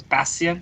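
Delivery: "Bastian" tried out with a questioning rise; tentative pronunciation. Shown as a demonstration. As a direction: attempt "Bastian" as if asking whether it is right. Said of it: "let's see if I can pronounce this".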